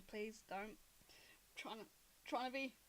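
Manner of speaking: half-whispered, low and soft; quiet, halting aside; hushed plea. Acted. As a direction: whisper it, trying to keep composed. Loma hushes cleric, holding back laughter.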